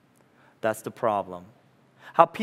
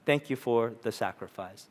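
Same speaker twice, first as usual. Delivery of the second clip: put-on grateful kids; 4 semitones lower, 4 dB quieter than usual. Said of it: "So they come and say".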